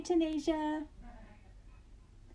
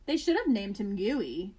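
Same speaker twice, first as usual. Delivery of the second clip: sighed; 4 semitones lower than usual. Acted. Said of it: "he sighed".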